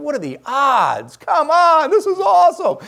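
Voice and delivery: high, shouted exultation; loud rejoicing. Retold or imitated. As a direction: cry out in amazed celebration, drawing out the first words. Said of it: "I'm loud now".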